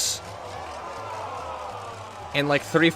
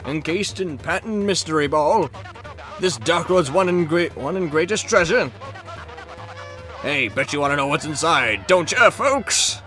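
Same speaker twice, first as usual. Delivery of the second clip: hyped TV announcer voice; booming prize announcer. Acted. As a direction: sell the prize like a showman. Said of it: "prize announcer read".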